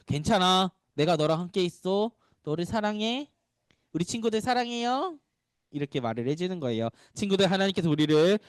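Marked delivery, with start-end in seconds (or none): 0.1-5.2 tender Jesus reassuring. Acted. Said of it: "예수님께서 이렇게 얘기해 주시는 거예요".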